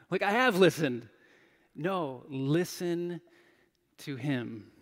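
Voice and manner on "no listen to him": lightly voiced calm inner voice insisting; inner voice of God. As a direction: stretch it out gently like a voice in your head. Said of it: "I heard this inner voice".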